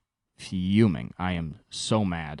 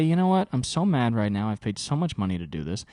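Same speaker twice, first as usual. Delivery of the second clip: imitating his own angry rant. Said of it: "I have moments where I say".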